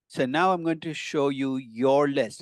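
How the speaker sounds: "your" leaned on, said slowly; stress on your. Shown as a demonstration. Professor stressing to students that the list is theirs, slow emphasis on "your". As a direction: lean on "your list" to hand them ownership. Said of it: "I want to emphasize the word your list".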